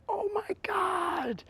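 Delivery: slow, breathless whisper of awe; awed whisper. Real, not acted. Performer whispering in awe at the crowd, slow. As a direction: let it fall out slowly in a whisper, almost crying.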